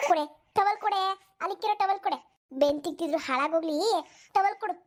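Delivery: grumbling granny barking for her towel; scolding old woman. Acted. (ಮುದುಕಿ ಜಯನನ್ನು ಬೈಯುತ್ತಾ towel ಕೇಳುವುದು)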